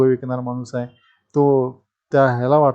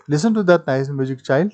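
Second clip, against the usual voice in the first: pleading; much slower than usual. Shown as a demonstration. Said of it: "he pleaded".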